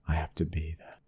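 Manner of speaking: breathy whispered aside; whispering to his wife he must attend. Acted. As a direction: say it under your breath. Telling wife about the fight.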